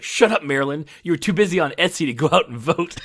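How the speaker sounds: loud, high, furious snapping at the wife; a husband yelling at his wife in rage; angry rage. Retold or imitated. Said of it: "the angry Asian rage".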